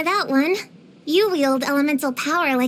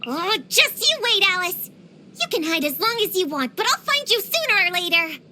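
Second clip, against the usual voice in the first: higher, taunting threat; playful villain-hunting vow; vowing revenge; 4 semitones higher than usual. Acted. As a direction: call out a threat to someone in hiding. Vows revenge on hiding enemy.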